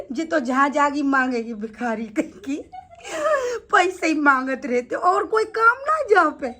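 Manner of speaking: mock scolding broken by real laughter; tease, giggling between the phrases; laughing mockery. Real, not acted. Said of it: "मुझे हंसी आ रही है इतनी". (हँसते-हँसते ताना मारना)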